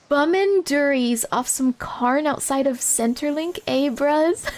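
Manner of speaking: slow, deliberately bad Aussie accent; butchered Australian accent. Streamer hamming up Aussie slang for chat, slow and bad. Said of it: "I'm butchering this".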